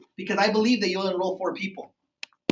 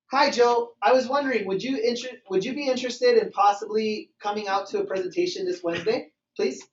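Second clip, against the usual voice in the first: mildly tentative, hesitant request; asking without posture. Shown as a demonstration. Inviting Joe to a presentation, mildly unsure and asking. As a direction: lightly demonstrate a weak, pleading invitation. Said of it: "That is not posture".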